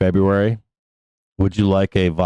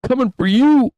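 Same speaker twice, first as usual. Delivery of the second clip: louder taunt; 14 semitones higher, 4 dB louder than usual. Pretend. Repeat taunt.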